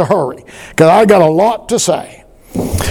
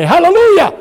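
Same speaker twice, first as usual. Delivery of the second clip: call and response. Shown as a demonstration. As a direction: lead the congregation, stretching out Lord. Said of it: "Say it with me".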